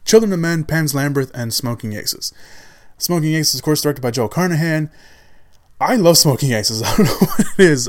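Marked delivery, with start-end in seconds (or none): 5.8-7.9 laughing while confessing a guilty-pleasure love; laughing fondly. Real, not acted. Vlogger laughing about his love for Smoking Aces. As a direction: chuckle through the words, a bit louder. Gushing about a favorite film.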